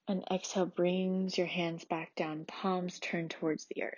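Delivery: measured, soothing prenatal yoga teacher; gentle yoga instruction. Acted. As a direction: lead a calm restorative class, leaving long pauses. Leads a restorative yoga practice.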